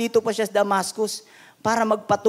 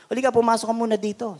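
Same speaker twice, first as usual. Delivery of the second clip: urging pastor; 3 semitones higher, faster than usual. Retold or imitated. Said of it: "Sabi niya".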